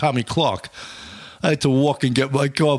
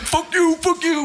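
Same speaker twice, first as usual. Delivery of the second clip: high-pitched mimicry of annoyed colleagues; mock indignant retort; slower than usual. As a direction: squeal it back as mock outrage.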